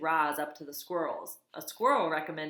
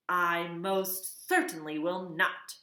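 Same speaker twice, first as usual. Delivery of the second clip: put-on slow, firm old goose squawk; squawking refusal; 3 dB louder, slower than usual. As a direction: refuse flatly like a proud goose. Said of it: "squawked the goose".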